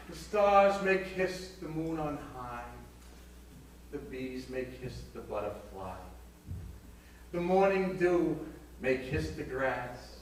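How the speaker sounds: slow, grand mock-romantic recital; poem recital. Hortense reads her poem to Brock, slow and mock-grand. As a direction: recite it slowly like a solemn love poem.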